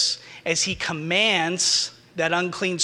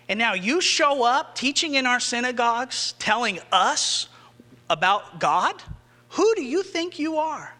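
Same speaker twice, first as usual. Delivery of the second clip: indignant challenge; 5 semitones higher than usual. Acted. Imagined resentful religious leaders.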